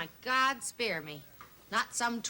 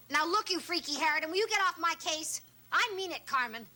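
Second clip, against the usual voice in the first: angry shout; 5 semitones higher than usual. Acted. Phone quarrel with neighbour.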